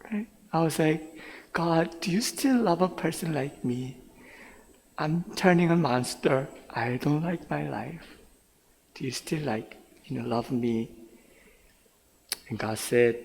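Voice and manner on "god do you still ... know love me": soft, hesitant questioning; subdued prayer. Acted. Young man asking God if he is still loved, subdued.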